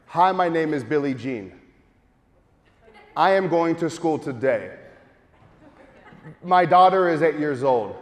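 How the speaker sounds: each sentence set apart by a long pause; pauses between sentences. Shown as a demonstration. Demo for the audience of the pause with mouth closed. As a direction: leave a silent gap after every sentence. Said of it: "Notice the pause".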